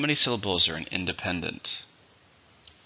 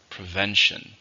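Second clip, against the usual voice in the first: "Prevention" with the stress on VEN; stress on second syllable; slower than usual. Shown as a demonstration. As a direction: model "Prevention", hitting the middle syllable. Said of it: "stressed in the second".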